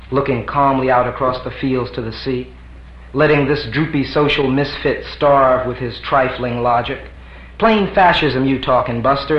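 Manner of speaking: lightly voiced scornful reply; mild swagger of a threat; defiant answer. Answerer warning the misfit away, lightly scornful. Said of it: "Answer to preface. In quotes".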